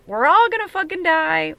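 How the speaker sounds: high, loud hammed-up wail; mock doom panic. Reader voicing a panicking viewer, hammed-up loud wail. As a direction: wail it like the end of the world.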